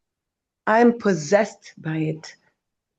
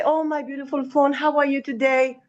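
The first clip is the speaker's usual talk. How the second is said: mock sweet talk to a phone; 4 semitones higher than usual. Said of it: "People don't say".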